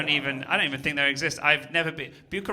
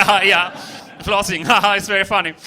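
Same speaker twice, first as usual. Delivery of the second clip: loud, giggly imitation of the crowd; mock giggling; 2 semitones higher, 8 dB louder than usual. Comedian mimics a giggling audience member, laughing. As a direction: play the giggling kid, laughing through it. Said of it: "you're giggling so much".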